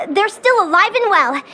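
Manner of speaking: ordinary talk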